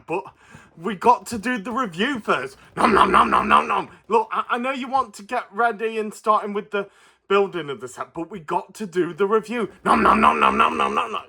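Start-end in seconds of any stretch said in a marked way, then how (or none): 2.8-3.9 munching creature voice. Acted. Puppet Stripe munching again. 9.8-11.2 munching creature voice. Acted. Puppet Stripe munching again.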